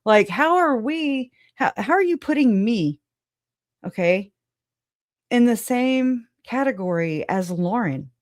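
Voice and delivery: high, indignant outburst, fast at first; incredulous venting at commenters; exasperated outburst. Retold or imitated. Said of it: "I'm like".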